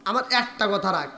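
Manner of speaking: soft, low appeal; pleading. Acted. Haresa asks Abu Jahl one favour, soft low pleading.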